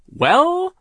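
loud, high, emphatic boss voice; big pushy businessman voice; overbearing boss. A narrator's reading. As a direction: boom it out like a self-important owner. Mill owner voiced in story.

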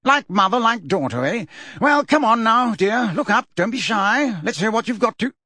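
jovial Fudge voice. Acted. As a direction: boom it with false cheer.

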